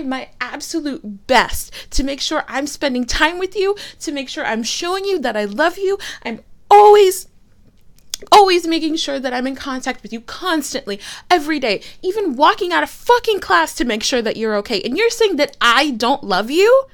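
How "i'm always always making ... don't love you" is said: a loud burst on always, then pressing on; heated insistence. Acted. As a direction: hammer home how hard they try. Defending herself in argument.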